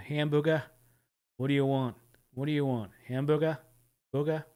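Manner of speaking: put-on trying out a Long Island accent; imitated Long Island accent. Viewer testing where the clip's accent is from, imitated Long Island accent. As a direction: lightly mimic an East Coast, Long Island accent. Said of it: "that's a Long Island accent".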